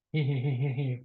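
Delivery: sly little villain giggle; mustache-twirling snicker; mock villain snicker. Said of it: "he's twirling his mustache".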